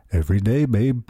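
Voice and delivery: weak imitation of a Liverpool accent; a passing stab at a Liverpool accent, quoting a singer. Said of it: "it's not a very good Liverpool accent".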